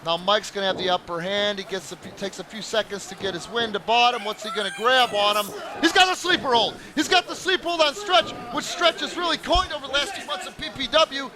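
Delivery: lively ringside play-by-play; wrestling commentator. Acted. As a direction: call the match live. Live match call.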